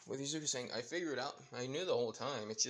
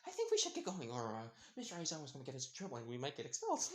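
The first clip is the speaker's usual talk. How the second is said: nervous laugh; 4 semitones higher, much faster than usual. Acted.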